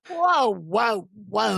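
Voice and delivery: whoa. Real, not acted. Host reacts to spooky reveal.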